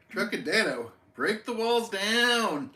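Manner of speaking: loud, high, very drawn out; mock-epic drawn-out holler; playful catchphrase shout. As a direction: belt it out slowly like a hype chant. Belts out catchphrase for a viewer.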